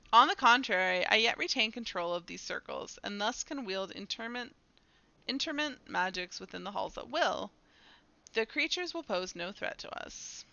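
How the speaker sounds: formal, assured delivery, firm start then easing; dramatic dialogue reading. Acted. Character assures companions of their control, formal dramatic reading. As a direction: read it as a ruler claiming command.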